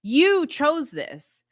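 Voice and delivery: acted-out upset husband driving it in; frustrated. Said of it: "really frustrated, right? Because if I were Steve".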